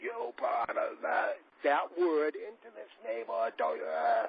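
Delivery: mild drawn-out yell. Retelling how a neighbor came out yelling at the speaker's father, imitating someone yelling. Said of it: "started yelling at my father".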